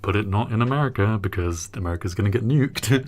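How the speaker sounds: lightly hammed-up advert voice; promotional pitch. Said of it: "Vault-Tec's, uh, promotional material".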